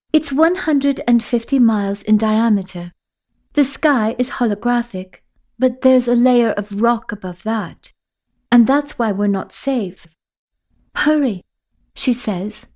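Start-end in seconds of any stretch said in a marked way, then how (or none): 0.1-11.4 put-on urgent girl leading the way; Sophia's voice. Sophia explains.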